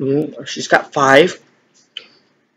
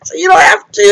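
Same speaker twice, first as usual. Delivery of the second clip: shouting; 11 semitones higher than usual. Real, not acted. Shouted retort.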